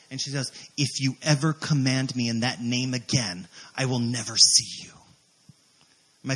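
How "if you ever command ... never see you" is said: retold threat. Witch's threat, acted.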